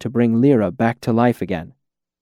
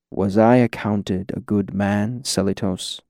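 weary; 2 semitones lower, 3 dB quieter than usual. Acted. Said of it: "There was a weariness in his voice".

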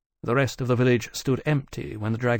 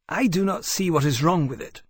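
Iskiaka; 5 semitones higher than usual. A narrator's reading. Iskiaka voiced, dragon.

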